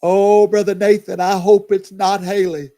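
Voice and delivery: calls out loud and high, almost a shout; an alarmed loud call to Brother Nathan; loud outburst. Real, not acted. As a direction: blurt it out across the room in alarm. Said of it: "Y'all, I'm so very sorry".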